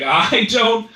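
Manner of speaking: hammed-up fearful whine; very afraid. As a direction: act out a frightened inner voice. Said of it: "my mind was like".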